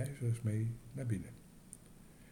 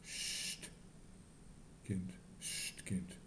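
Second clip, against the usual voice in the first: hushing whisper; 3 semitones lower, 8 dB quieter, much slower than usual. A narrator's reading. Father hushes his daughter.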